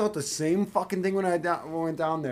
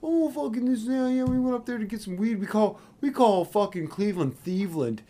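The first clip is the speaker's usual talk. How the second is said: mock bragging kid; 6 semitones higher than usual. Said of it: "He's like".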